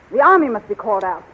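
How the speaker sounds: usual speaking voice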